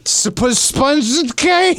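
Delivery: slow words through giggles; laughing. Real, not acted. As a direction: laugh while explaining. Laughing explanation.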